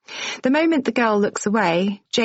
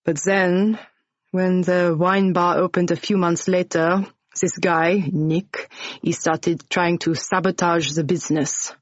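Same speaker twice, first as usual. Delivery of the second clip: lightly voiced French-accented bar owner, exasperated; Jensen, French accent. Bar owner telling Jane and Ash about Nick, lightly French-accented and scornful.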